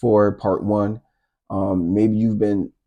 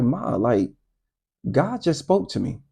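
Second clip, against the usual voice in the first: re-enacted earnest confiding; 3 semitones higher than usual. Crying child telling mom about God's voice, high and earnest. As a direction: pitch climbing high as you confide.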